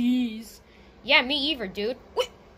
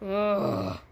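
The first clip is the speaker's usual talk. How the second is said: pretend sobbing; much slower than usual. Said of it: "I'm just so upset".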